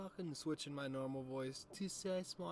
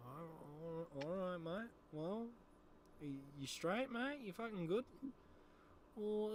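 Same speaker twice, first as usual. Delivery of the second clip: Sass coming to after a bender; Sass waking up. Acted. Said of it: "switching between my normal voice and the fucking Sass, mate".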